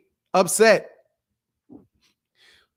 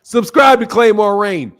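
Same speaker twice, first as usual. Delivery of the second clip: louder repeat of the plug, hyping it; louder, emphatic channel shout-out; 5 dB louder than usual. Real, not acted. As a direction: push the plug like a hype call. Repeats plug for Claymore Rain.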